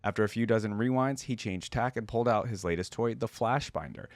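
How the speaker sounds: steady, even storytelling read; measured narrator voice reading the tale; story narration. Acted. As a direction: read the lore like an audiobook. Reads lore story aloud.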